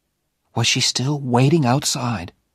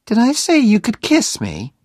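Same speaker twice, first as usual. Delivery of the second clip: high, loud challenging question; indignant challenge; 12 semitones higher, 5 dB louder than usual. A narrator's reading. Jenny challenges Oliver after his quick kiss, indignant. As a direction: challenge him in a raised, higher voice.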